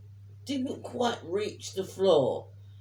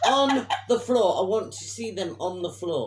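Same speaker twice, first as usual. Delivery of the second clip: laughing order; 4 dB louder than usual. Retold or imitated. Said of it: "I went".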